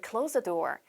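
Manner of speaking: "close" ending in a voiced z; z sound. Shown as a demonstration. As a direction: say "close" as the verb, buzzing z at the end. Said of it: "이렇게 z 발음을 하죠".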